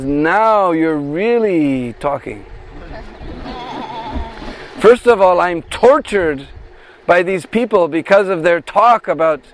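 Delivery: a hint of feigned outrage; lightly voiced indignant Radharani. Radharani mock-scolds about Krishna.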